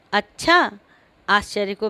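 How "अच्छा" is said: "अच्छा" said as a question; questioning tune. Shown as a demonstration. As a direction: ask it with the one word "अच्छा". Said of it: "जैसे प्रश्नवाचक". ("अच्छा" प्रश्नवाचक सुर में)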